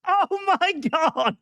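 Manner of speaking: squeaky high cutesy voice; playful gamer girl headset. Pretend. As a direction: gush at chat in a high squeal. Streamer greeting chat, high put-on voice.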